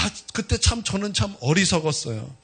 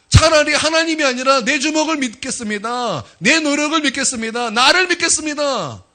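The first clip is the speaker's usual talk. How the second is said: acted scoffing, building higher and more forceful; scornful protest in a preacher's raised voice; mocking retort; 4 semitones higher than usual. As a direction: play the incredulous son-in-law, pitch climbing as the defiance grows. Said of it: "그러면서 비웃었다라는 거예요".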